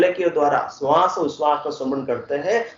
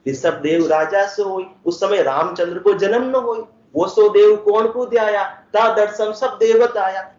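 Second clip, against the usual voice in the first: measured scripture verse, rising higher in the second half; verse recitation; 4 semitones higher than usual. Acted. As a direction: recite in a lilting chant-like cadence. (लय में पद का पाठ)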